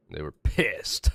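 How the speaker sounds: laughing through it. Real, not acted. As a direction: say it while laughing. First take, quieter.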